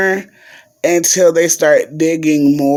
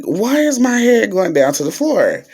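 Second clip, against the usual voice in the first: higher-pitched puzzled exclamation; retold alarm; 6 semitones higher than usual. Patient feeling the surgery table tilt, retold higher-pitched alarm. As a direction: question it in mock alarm, pitch raised.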